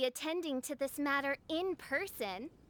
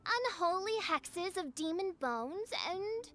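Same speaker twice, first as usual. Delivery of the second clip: theatrical. Acted. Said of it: "Why do you have to talk so funny".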